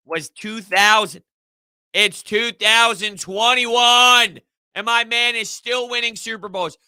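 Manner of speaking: slow, high and loud, each word stretched out; amazed emphasis. Real, not acted. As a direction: marvel at the years, drawing them out. Marvelling at Brady's longevity.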